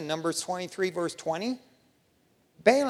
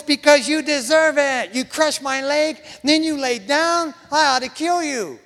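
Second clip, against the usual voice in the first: much higher, louder, slowing on the leg and lying down; furious shout; 8 semitones higher, 7 dB louder than usual. Acted. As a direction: bellow it at the donkey in a rage. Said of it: "He's so mad".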